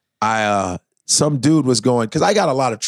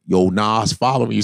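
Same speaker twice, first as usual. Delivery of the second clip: low troll voice; 4 semitones lower than usual. Retold or imitated. Troll again.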